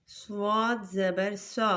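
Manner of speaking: slow, thick صاد زبر سا; heavy letter. Shown as a demonstration. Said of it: "صاد کو بھی موٹا پڑھیں گے".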